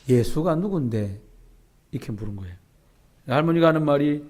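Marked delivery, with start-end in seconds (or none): 0.1-1.2 Gyeongsang grandma. Retold or imitated. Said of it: "다른 할머니가 얘기하기를".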